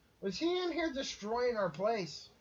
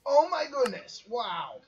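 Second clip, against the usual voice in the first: shocked; 4 semitones higher, 5 dB louder than usual. Real, not acted. Shocked at hit.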